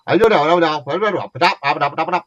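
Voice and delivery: a light impression of thick Geordie speech; mock Geordie gibberish. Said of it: "All that she heard was".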